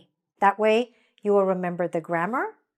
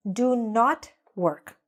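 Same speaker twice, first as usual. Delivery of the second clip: slow model sentence; 2 semitones higher, slower than usual. Shown as a demonstration. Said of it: "or we would say".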